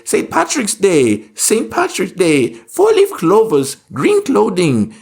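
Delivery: very high, slow, hammed-up Irish lilt; mock Irish-Jamaican accent. Shown as a demonstration. Vlogger giving examples to prove the link, in an exaggerated Irish-Jamaican accent. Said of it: "it's actually an Irish accent".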